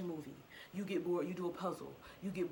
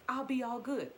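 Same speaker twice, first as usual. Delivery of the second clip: upbeat; 6 semitones higher, 5 dB louder than usual. Retold or imitated. Her own excuses, retold.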